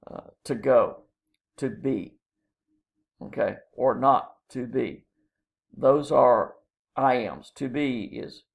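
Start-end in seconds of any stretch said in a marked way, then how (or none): 0.4-2.1 unstressed "to", then a stressed "go" and "be"; da-DUM on "to go" and "to be"; iambic stress. Shown as a demonstration. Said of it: "the B gets stressed". 3.7-5.0 "or NOT to BE" in unstressed-stressed beats; iambic stress. Shown as a demonstration. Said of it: "the B gets stressed".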